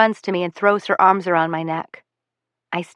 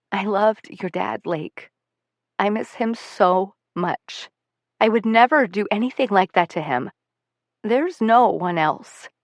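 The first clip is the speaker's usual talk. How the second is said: sincere. Acted. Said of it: "She's being sincere".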